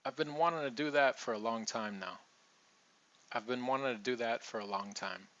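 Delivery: "wanting" said as "wannin'"; dropped T. Shown as a demonstration. Teacher modelling the sentence with wanting as wannin'. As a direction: drop the T after the N. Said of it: "we're gonna say wannin'".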